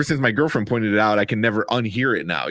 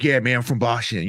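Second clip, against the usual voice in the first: mock Boston accent, jaw pushed forward; lightly imitating a Boston accent. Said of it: "New York, Boston accent".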